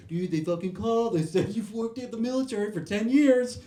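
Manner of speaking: frantic friend breaking the news; panicked buddy. Retold or imitated.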